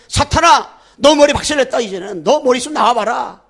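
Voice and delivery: loud commanding rebuke of Satan; rebuking Satan. Acted. Preacher shouting down Satan, loud rebuke.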